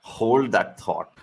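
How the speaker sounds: low, very slow and soft anchor voice; slow news anchor. Shown as a demonstration. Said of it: "Talking like a news anchor".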